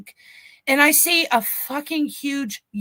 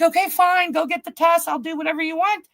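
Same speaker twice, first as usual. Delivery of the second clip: higher, exasperated mock surrender; exasperated retold agreement; 5 semitones higher than usual. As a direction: act out fed-up defiance. Retold giving in to drug test.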